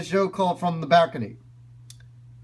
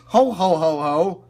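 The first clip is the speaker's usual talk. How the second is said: Santa laugh. Shown as a demonstration. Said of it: "like Santa Claus".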